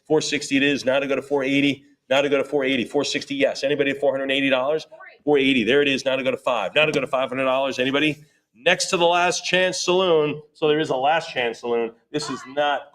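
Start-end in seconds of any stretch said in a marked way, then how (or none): 0.1-8.2 brisk auctioneer chant of numbers; auction bid calling. Acted. Auctioneer calling bids to the room, rhythmic chant. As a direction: keep the bids rolling.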